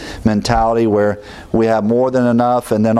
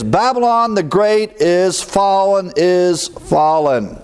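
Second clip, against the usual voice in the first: higher, slow, drawn-out proclamation; mighty angel's cry; 6 semitones higher, slower than usual. Retold or imitated. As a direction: call it out like a mighty angel over the earth. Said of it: "loud cry".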